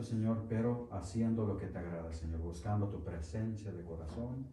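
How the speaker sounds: hushed, earnest prayer to the Father. Acted. Pastor praying with the congregation before the lesson, hushed.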